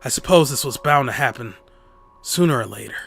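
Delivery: lightly voiced hesitant man, pitched low; a hint of low, awkward acceptance; reluctant Osawa.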